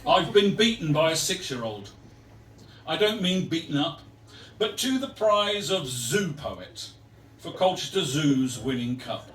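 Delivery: rhythmic light-verse recital with punched openings; comic poem reading. Acted. Poet airing a grievance over a zoo poetry prize, rhythmic recital. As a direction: land each rhyme for the room.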